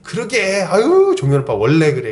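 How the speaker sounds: mock gossipy siding-with-you tone; imitated sympathetic agreement. Older women backing an upset friend's complaint, mock-commiserating. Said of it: "같이 이제 동조해서 얘기".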